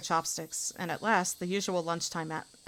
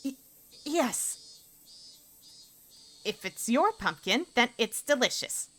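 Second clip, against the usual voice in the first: put-on high, slow, sweetly forced girl's voice; bright high schoolgirl praising lunch through clenched politeness; girl character voice; 7 semitones higher, slower than usual. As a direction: voice a girl faking enthusiasm. Character voice again.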